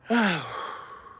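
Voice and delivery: heavy exhale after effort; tired sigh. Real, not acted. Streamer winded after putting away weights, tired sigh. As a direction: let out a falling sigh.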